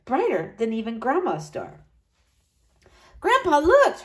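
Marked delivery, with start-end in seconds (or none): 3.2-4.0 high eager call. A narrator's reading. Boy in the car calling to grandpa, high. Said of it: "Richie called out".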